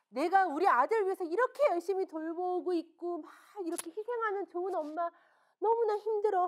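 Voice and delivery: a mother sighing over her own sacrifice; self-pitying mother. Retold or imitated.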